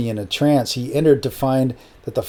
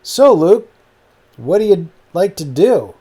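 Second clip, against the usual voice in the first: put-on higher, Brazilian-accented host; 5 semitones higher than usual. A narrator's reading. Brazilian man asking Luke what he likes, Brazilian accent. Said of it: "he said in his thick Brazilian accent".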